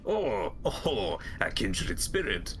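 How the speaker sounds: hint of French-Russian in a courtly welcome; French-ish accent. Flea master welcomes a fellow wanderer, French-ish accent. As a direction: greet a kindred spirit in a muddled French accent. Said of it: "it's an accent, kind of French".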